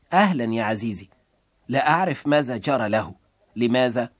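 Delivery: gentle, tender greeting to her husband; warm, tender. Acted. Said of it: "بصوت دافئ حنون".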